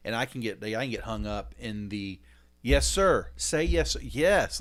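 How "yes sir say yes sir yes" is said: loud, clipped demand for a yes sir; stern dad command. Retold or imitated. Dad ordering his daughter to answer yes sir, loud. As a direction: bark the order at the kid.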